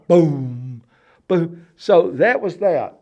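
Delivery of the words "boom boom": short run of booming thuds; imitated booms. Counting the bangs for listeners, imitated booms. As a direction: boom out the wall noise. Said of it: "It was about four or five".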